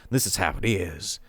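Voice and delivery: a light drawled Southern cowboy twang; a hint of the old Western cowboy narrator voice. Shown as a demonstration. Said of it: "I usually go into my, my old cowboy Southern voice".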